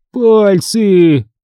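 high-pitched, acted moan; pained moan.

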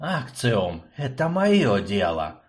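icy voice. Acted. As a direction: answer with ice in the voice. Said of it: "ледяным голосом ответил Горджелин".

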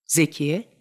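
plain reading voice

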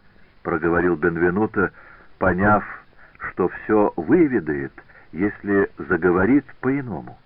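ordinary delivery

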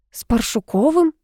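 astonished follow-up question; taken aback. A narrator's reading. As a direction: check the name in disbelief. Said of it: "опешила я".

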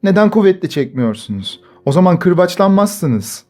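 a mild crying woman begging dogs; tearful plea. A narrator's reading. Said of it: "diye ağlayarak".

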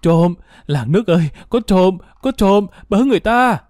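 high-pitched alarm cry; crying for help. A narrator's reading. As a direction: rouse the village against a thief. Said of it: "bà mới hét lên".

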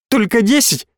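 a mother echoes her daughter, outraged; incredulous echo. A narrator's reading. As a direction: throw her words back in disbelief. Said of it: "Да ещё только десять!".

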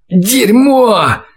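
a high, strained growl through clenched teeth. A narrator's reading. Captured scout curses his captors, growled through teeth. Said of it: "прорычал допрашиваемый сквозь зубы".

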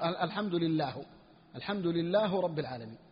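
"لله" ending in -hu instead of -hi; harmless vowel slip. Shown as a demonstration. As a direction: demonstrate the slip, damma on the end of "لله". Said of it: "هذا لا يحيل المعنى".

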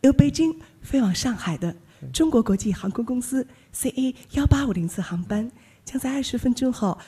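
flight attendant. Acted. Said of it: "学学啊".

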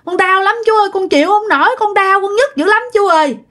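acted sobbing plea, pitched well up; imitated tearful whimpering. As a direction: plead in pain, as if crying to the doctor. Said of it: "cô miếu máu, cô khóc rằng".

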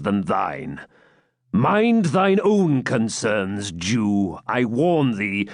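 slow, cold menacing knight; stern knight. Acted. Baron gloating over his captive, menace. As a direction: gloat over your power.

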